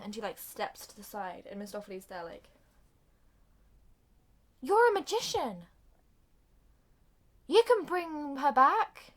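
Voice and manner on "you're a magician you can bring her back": acted urging.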